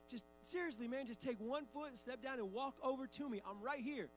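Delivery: exasperated pleading. Retold or imitated. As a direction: plead with a child to just cooperate. Dad pleading with son.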